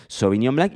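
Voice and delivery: "Sauvignon Blanc" as "so-vi-ÑON BLANK", nasal French ending; French pronunciation. Shown as a demonstration. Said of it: "pero es".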